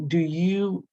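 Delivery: holding back a sneeze mid-question; about to sneeze. Real, not acted. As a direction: talk through a sneeze coming on. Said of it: "excuse me, I have to sneeze".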